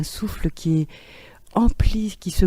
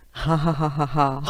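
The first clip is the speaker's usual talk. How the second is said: laughing on A. Shown as a demonstration. Teacher demonstrating laughter on the vowel A for the group. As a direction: open ha ha laughter. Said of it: "la voyelle A".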